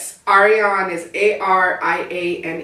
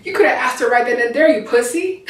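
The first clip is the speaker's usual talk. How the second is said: put-on Southern accent; 5 semitones higher, 3 dB louder than usual. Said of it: "sit up with a Southern accent and stage whisper it".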